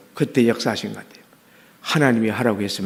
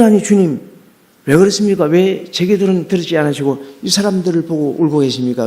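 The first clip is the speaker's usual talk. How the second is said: pleading prayer; 4 semitones higher than usual. Retold or imitated. Pastor reenacting his pleading prayer to the Lord. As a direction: demand an answer from heaven, pleading.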